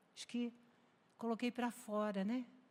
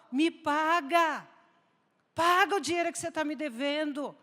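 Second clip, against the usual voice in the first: demanding creditor; 5 semitones higher, 8 dB louder than usual. Pretend. Creditor hounding a debtor.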